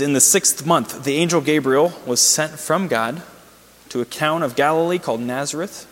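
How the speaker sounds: measured, emphatic public Bible reading; scripture reading. A narrator's reading. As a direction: read it out in deliberate phrases. Reads scripture aloud.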